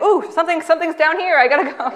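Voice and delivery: hastily invent a reason to leave; lightly voiced evasive clerk. Clerk dodging her at store.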